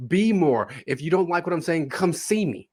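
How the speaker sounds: lightly voiced athlete's hype speech; Mark Ingram. Retelling a stadium video, lightly imitated hype. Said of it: "reminded of that video of Mark Ingram".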